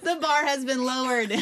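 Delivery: high laughing, slowed delight; high, laughing, almost tearful joy; laughing relief. Retold or imitated.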